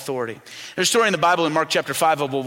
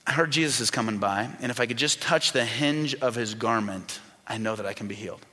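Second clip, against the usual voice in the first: hopeful inner thought; 5 semitones lower, 6 dB quieter than usual. Retold or imitated.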